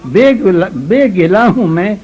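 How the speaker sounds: romantic shayari. Acted. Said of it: "اب شعر سنو".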